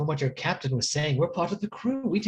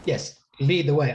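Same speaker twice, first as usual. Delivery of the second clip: repeated, pointed; 4 dB louder than usual. Acted. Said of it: "I do believe I spoke slowly enough".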